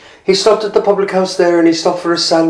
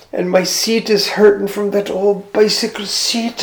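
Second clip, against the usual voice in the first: weary lament; 3 semitones higher than usual. Acted. Philip's inner lament.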